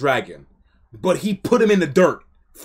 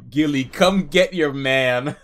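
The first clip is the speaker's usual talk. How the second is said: laughing. Real, not acted. Laughing at the scene.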